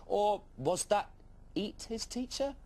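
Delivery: high, slow, wide-eyed doubt; comic alarm. Acted. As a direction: let the worry creep in funny.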